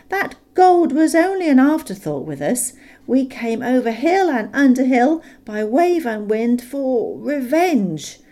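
a small hobbit bravely keeping his end up; Bilbo standing up to the dragon. A narrator's reading. Bilbo insisting to Smaug, high and loud. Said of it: "to keep his end up".

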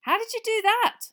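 high, excited squeal. A narrator's reading. Angelina squealing at George's trick, high squeal. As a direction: squeal it in delight. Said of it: "squealed Angelina Johnson".

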